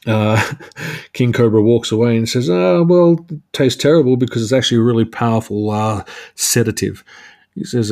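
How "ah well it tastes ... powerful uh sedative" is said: hint of comic-book monologuing; superhero monologue. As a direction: launch lightly into a mock villain's explanation. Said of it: "great superhero monologue fashion".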